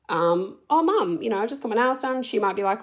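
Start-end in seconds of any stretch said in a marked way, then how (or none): 0.7-2.2 cheery. Pretend. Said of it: "how I thought the conversation would go".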